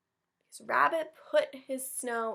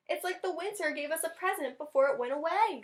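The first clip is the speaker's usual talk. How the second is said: higher, sweet mouse voice; gentle Mouse; 7 semitones higher than usual. Acted. Teacher voicing wondering Mouse for children, higher.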